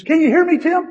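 high, loud mock-distant call; voice from out the door. Anesthesiologist testing the patient's hearing, high far-off call. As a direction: call to the patient as if from outside the room. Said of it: "It sounded like he was, like, out the door".

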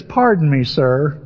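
dry, mildly sarcastic politeness; mock-polite, dropping low on "sir". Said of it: "almost with a sarcastic tone".

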